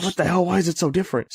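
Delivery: high-pitched, lightly acted disbelief; mock indignant protest. Retold customer questioning the booth's prices, mock indignant. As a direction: imitate a baffled complaint, pitched high.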